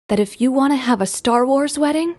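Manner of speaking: imitated earnest, careful reassurance; solemn acceptance. Mother accepting daughter's fandom like a coming-out, solemn support. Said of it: "as if my mother was accepting something".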